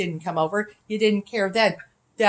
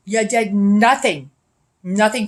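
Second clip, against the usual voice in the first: slower and louder, leaning on "nothing"; louder accusation; 4 dB louder than usual. Real, not acted. Accusing the police of doing nothing, repeated in a louder, slower voice. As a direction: drag out "nothing" and hit it hard.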